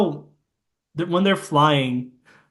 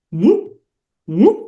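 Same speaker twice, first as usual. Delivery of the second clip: a higher, louder little whoop twice; high ring whoop; 5 semitones higher, 4 dB louder than usual. Shown as a demonstration. Retelling the film, sounding the ring's whoop. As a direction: pop it out like the ring vanishing. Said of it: "Puts on the weight ring".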